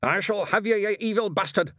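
loud, high, raging threat; angry shout. Acted. Witchfinder advances on the angel, shouting. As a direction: shout it like a righteous avenger. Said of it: "he shouted".

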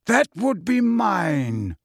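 slow, commanding Dumbledore; deep voice. A narrator's reading. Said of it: "said a deep voice".

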